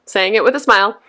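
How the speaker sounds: smiling. Real, not acted. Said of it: "I'm smiling when I say that".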